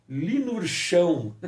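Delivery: slow, drawn-out linurchão with a laugh; amused mnemonic. Shown as a demonstration. Teacher presents a made-up memory word, amused. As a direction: savour the odd word linurchão, chuckling. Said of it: "olha que louco".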